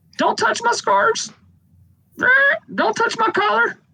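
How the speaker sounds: very high, chirpy, twittering birdlike voice. Narrating a character who fixes his gaze on someone and speaks: chirpy bird-like voice. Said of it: "that real chirpy kind of voice says".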